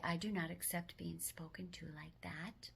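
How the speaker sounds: calm and firm with a loving edge; assertive, firm, loving. Shown as a demonstration. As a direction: draw a line without anger. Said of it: "Say it assertively and firmly, yet with love".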